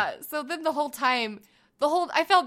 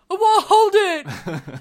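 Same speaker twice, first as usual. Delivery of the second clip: put-on I want a "snack" said "nack", dropping the s, in a toddler voice; a toddler begging mom, "snack" said as "nack"; imitating toddler speech; 7 semitones higher, 9 dB louder, slower than usual. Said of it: "And he goes".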